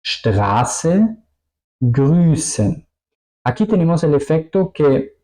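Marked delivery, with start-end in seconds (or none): 0.0-2.9 long vowel and long sharp S in "Straße, Grüßen"; ese picante. Shown as a demonstration. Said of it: "sería la S picante". ("Straße, Grüßen" con vocal larga y ese larga)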